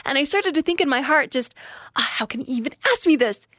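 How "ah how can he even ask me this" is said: higher and louder, rising indignation; indignant retold thoughts, higher and louder; angry inner rant. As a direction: rant at him in your head, fuming. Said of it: "I was so mad".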